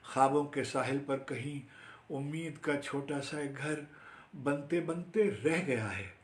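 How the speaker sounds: lilting verse that gradually lifts; flowing Urdu poem recital; poetry recitation. Acted. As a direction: stretch the final phrase of the stanza.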